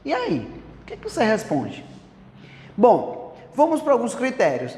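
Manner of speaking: normal talking voice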